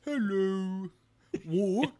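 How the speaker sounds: lightly voiced peasant in a London accent; a hint of a game peasant; mock peasant greeting; Warcraft peasant. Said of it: "you sound like a peasant from Warcraft".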